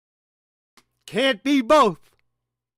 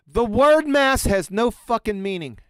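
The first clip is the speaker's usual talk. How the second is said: "word" and "mass" pressed, a bit louder and higher, mock-solemn; emphatic punchline; 5 semitones higher, 4 dB louder than usual. Shown as a demonstration. Lecturer mocking Born's textbook to his audience, loud and emphatic. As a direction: declare "the word mass has no fucking meaning" like a verdict. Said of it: "very strongly emphasize".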